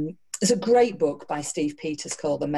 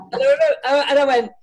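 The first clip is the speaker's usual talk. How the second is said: laughing; 7 semitones higher, 6 dB louder, faster than usual. Real, not acted. Laughing while retelling.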